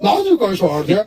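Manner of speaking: a hint of Suniel Shetty, stiff and serious; lightly voiced deadpan action hero; Suniel Shetty impression. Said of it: "Sunil Shetty.". (Sunil Shetty की हल्की नकल)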